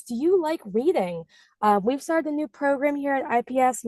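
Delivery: lightly hammed-up sales pitch; a hint of a TV pitchman; infomercial. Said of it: "I have to practice my infomercial voice".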